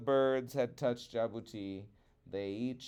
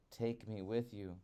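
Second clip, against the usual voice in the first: pleading; 7 dB quieter than usual. Acted. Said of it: "Jabuti pleaded".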